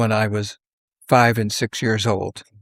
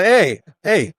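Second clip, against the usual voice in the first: friends' mock protest; 8 semitones higher, 4 dB louder than usual. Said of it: "They go".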